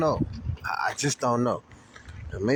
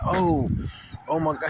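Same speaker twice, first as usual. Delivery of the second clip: worried driver. Retold or imitated. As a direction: play the startled driver who just hit him. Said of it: "He was like".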